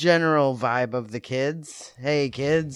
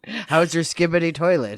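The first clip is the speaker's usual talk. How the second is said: laughing; 3 semitones higher than usual. Real, not acted. Teasing, laughing at co-host.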